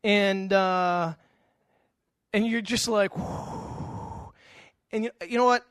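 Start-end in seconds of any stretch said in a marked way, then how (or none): 3.2-4.3 long airy "whew" with no voice; blown-out whoosh. Acted. Preacher acting out a family blow-up, long breathy whoosh. Imitates sound after parent's outburst.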